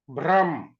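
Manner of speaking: भ्रम with bh and r together; भ्रम, bhr as one cluster; say bhram. Shown as a demonstration. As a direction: demo of भ्रम. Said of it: "रा और भा एक साथ निकल रहा है".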